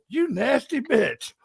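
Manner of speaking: mock scolding, stretched out; spirit's insult. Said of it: "you hear the spirit come o".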